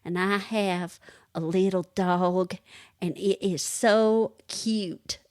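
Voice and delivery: slow, drawn-out mock Southern accent; copying a little girl's heavy Southern drawl, lightly; Southern accent imitation. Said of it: "heavy Southern accent".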